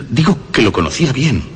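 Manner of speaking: con una risita de loco; risa siniestra. Acted. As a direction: dilo riéndose por dentro, orgulloso. Narrador recuerda el gemido. (narrador perturbado que habla entre una risa inquietante)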